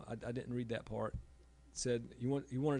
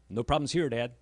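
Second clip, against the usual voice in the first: daughter's quip; 10 dB louder than usual. Retold or imitated. Daughter quoted, dry quip.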